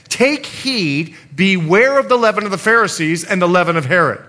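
loud proclaiming scripture reading; solemn warning. Acted. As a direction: proclaim it as Jesus' stern warning. Jesus' warning quoted from scripture.

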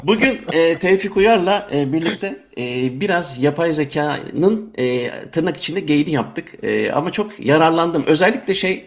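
host outro. Acted. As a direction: wrap up the show like a host. Host's closing wrap-up.

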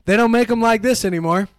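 grumbling dad. Retold or imitated. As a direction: grumble like a dad over broken junk. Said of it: "dads love saying".

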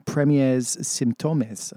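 put-on album title in careful, slowed French accent; attempted French accent. Radio host gamely attempting a French album title, attempted French accent. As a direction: try your best French accent, slowly. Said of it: "in my best French accent".

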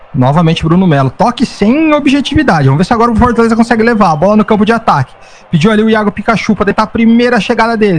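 rising, quickening football commentary; live play-by-play. Acted. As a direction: build up with each attack.

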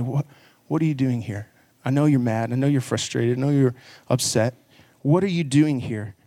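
sincere, understanding question in an even voice; loving, not sarcastic. Acted. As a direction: gently draw the answer out of him. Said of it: "he's in love".

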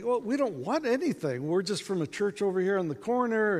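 high-pitched, placating cheer; mock breezy friendliness; lighthearted. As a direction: keep it light to reassure a stranger. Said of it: "trying to keep it lighthearted".

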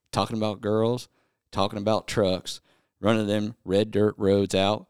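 song lyrics read flat, half-spoken; deadpan recital of country lyrics; reading country lyrics aloud in a mostly speaking voice. Pretend. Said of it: "listen in as the speaker read sings us some country songs".

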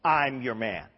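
loud, slow, bold pledge of loyalty; emphatic boast. Acted. Peter vowing loyalty to Jesus, boastful and emphatic. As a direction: declare it boldly, drawing out the key words.

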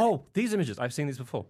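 high, loud alien recognition. Pretend. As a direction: play a knowing alien. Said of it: "I'm going to pretend to be an alien".

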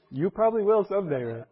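high, loud playful jab; playful teasing jab. Real, not acted. Teacher ribbing a student that his gestures will annoy them someday, playful.

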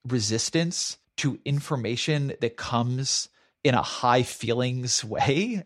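slow, deliberate robot voice; flat and slow like a robot. Shown as a demonstration. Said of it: "I am saying this purposefully, like a robot to you".

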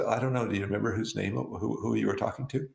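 lightly teasing, playing innocent. Colleague playfully teasing the trash company lady, mock-innocent. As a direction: feign not knowing, just to tease. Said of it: "I thought I would tease her".

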